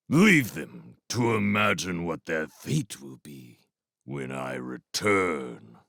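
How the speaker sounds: warlord rat sentencing the voles; menacing warlord. Acted. Clooney's cold reply.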